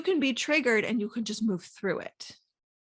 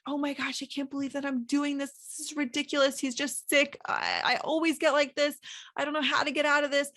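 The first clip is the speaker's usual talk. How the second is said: higher, exasperated inner panic about a sick husband; frustrated self-talk; 4 semitones higher than usual. Retold or imitated. Wife's overwhelmed inner voice spiralling, mild exasperation. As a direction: rant at yourself, mildly overwhelmed. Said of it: "you immediately go to".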